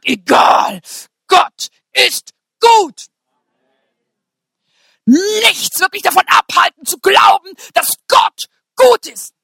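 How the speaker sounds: loud, high, slow preaching cry; shouted declaration. Real, not acted. Preacher vowing to congregation, shouting high and slow. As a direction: lift it and shout each word.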